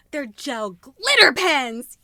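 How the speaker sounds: breathless thrill at the find; gasped, drawn-out wonder; gasping delight. Real, not acted. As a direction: gasp then slow, loud awe. Gasp at unboxing find.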